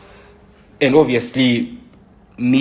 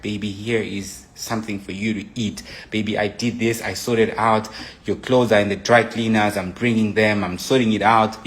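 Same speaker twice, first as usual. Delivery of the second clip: sweet doting partner. Retold or imitated. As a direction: offer the food tenderly. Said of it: "kneel down and give you food".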